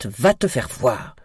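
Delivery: loud, slow, forceful curse; angry shout. A narrator's reading. Brother curses his sister in a quarrel, slow angry shout. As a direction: shout it, drawing the words out. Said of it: "cria Kit".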